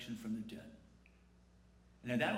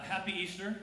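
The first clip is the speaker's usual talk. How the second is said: lame greeting; 5 semitones higher than usual. Shown as a demonstration. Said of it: "That sounds kind of lame".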